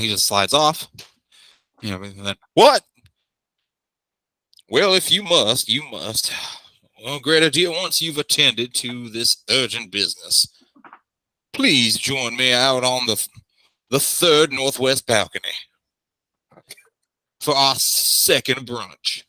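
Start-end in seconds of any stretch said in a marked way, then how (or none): 2.5-2.8 sharp, high, loud startled exclaim; startled what. Acted. Startled NPC. 4.7-19.2 booming voice. Acted. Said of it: "Lord Bormier's booming voice".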